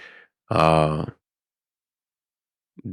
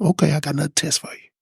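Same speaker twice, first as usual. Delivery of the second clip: higher, fast, playful voice of God; God's voice, teasing; 9 semitones higher, faster than usual. Retold or imitated. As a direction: toss it off as God setting a new test. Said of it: "God was like".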